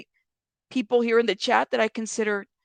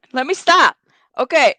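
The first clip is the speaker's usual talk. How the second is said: louder, decisive, a touch higher; firm reset; 3 semitones higher, 8 dB louder than usual. Real, not acted. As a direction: snap yourself back on track. Pulls herself together firmly.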